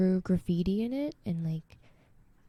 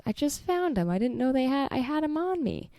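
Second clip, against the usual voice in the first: higher, sheepish excuse; sheepish guy; 4 semitones higher than usual. Retold or imitated. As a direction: play the guy caught hiding candy. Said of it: "the other guy goes".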